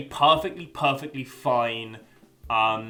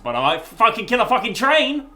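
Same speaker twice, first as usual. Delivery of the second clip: loud, higher exasperated burst; mock outburst; 8 semitones higher, 8 dB louder than usual. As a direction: blurt it out loudly.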